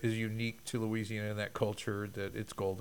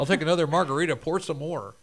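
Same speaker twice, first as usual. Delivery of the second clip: mock tourist order; 4 semitones higher, 5 dB louder than usual. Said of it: "start speaking in Spanish".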